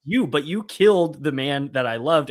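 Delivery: half-acted accusation, climbing loud then settling; mock angry retort. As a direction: spit it back at him like a retold outburst. Debbie's angry retort retold.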